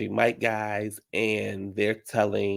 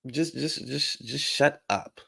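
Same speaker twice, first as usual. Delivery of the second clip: tag; 4 semitones higher, 5 dB quieter, slower than usual. Real, not acted. Fed up with Dorit.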